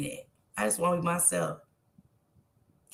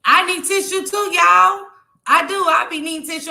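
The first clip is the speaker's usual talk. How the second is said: excited laughing plea; 8 semitones higher, 8 dB louder than usual. Real, not acted. Tearful, laughing at herself.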